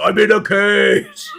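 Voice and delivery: slow, drawn-out mock lament; lightly hammed-up ogre complaint; ogre impression. Goblin imitates the trapped ogre, mock lament. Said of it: "the ogre goes".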